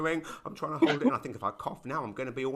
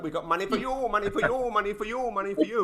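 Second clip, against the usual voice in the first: higher, louder singsong handout voice; mock Trudeau giveaway; 8 semitones higher, 6 dB louder, faster than usual. Trudeau mocked at his daily cash giveaway, upbeat and higher. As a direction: hand out cash like a game show host. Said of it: "He'd be like".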